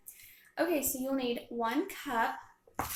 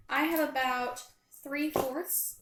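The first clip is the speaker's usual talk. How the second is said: talking with a numb mouth after the dentist; slow, careful words through a numb mouth; 2 semitones higher, slower than usual. Real, not acted. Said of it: "My mouth is numb".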